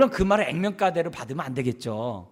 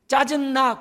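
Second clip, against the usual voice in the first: higher, louder bratty "짜증나"; mock child annoyance; 9 semitones higher, 4 dB louder, slower than usual. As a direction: toss it off like a sulky kid. (짜증내는 아이 흉내)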